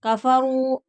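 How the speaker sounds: कफरू with the final ऊ drawn long; stretched ending. Shown as a demonstration. Teacher stretching the madd in कफरू. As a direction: pull out the रू. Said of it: "कफरू खींच कर पढ़ेंगे".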